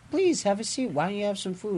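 high, sweetly menacing host voice; villain offer. Retold or imitated. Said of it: "and he's like".

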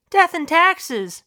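high, slow, drawn-out pronouncement; slow dog wisdom. Acted. Talking dog gives the class its wisdom, slow and high. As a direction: intone it slowly up high.

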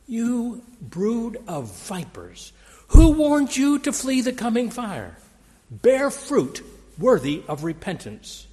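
contemptuous prophet scorning the powerful; sneering. Retold or imitated. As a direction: sneer down at the establishment. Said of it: "John sneered".

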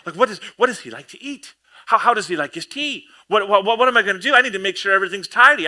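a flustered host in a rush before the guest; panicking host. Retold or imitated. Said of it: "I'm gonna be panicking".

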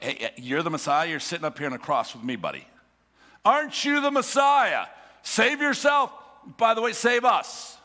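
bait him like a fellow convict; mocking taunt. The thief beside Jesus jeering, mocking taunt.

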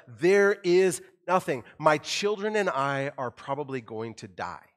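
put-on a parent with no food left for their children; desperate panic. Imagined starving parent, loud mock panic. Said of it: "kind of way".

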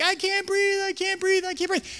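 high, breathless panicked plea; panicked gasping. Retold or imitated. Girl crushed under kids, high panicked gasping. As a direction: imitate her gasping under the pile. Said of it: "She's like".

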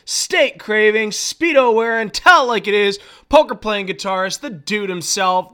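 loud, high hype announcer intro. Acted. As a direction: boom it out like a ring announcer.

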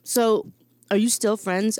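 talking with a mouth full of sandwich. Real, not acted. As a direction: mouth full, chewing between words. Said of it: "I'm sorry, I'm eating a sandwich".

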